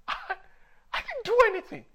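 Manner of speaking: high-pitched, loud wail of innocence; loud protest. Retold or imitated. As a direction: yell it like a wronged child. Acting out protest while flogged.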